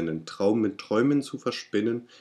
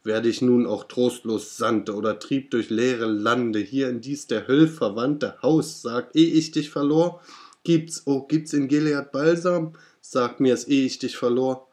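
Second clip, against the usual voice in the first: higher, louder desperate plea; desperate cry; 4 semitones higher, 4 dB louder than usual. Acted. Narrator begs the raven for balm, higher and louder. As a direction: beg the bird for an answer. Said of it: "rief ich".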